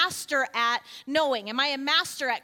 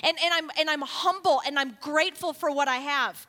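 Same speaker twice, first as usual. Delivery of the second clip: grateful owner; 2 semitones lower than usual. Retold or imitated. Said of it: "What's my heart for your vehicle".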